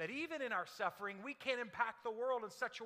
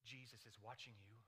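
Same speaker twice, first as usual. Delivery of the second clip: low, hushed, eerie voice from the dark; hushed hidden voice; 9 semitones lower, 15 dB quieter than usual. A narrator's reading. Unseen parrot warns a burglar in the dark, hushed and eerie. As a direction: spook the burglar without showing yourself. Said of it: "The voice says".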